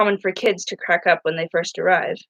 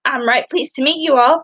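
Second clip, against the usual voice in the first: smiling greeting; 7 semitones higher than usual. Acted. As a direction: smile to win them over. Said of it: "Piper smiled".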